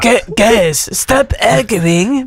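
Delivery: slow mock repeat of the accent; a hint of the put-on accent, teasing; imitating Spanish accent. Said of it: "That's how you were talking".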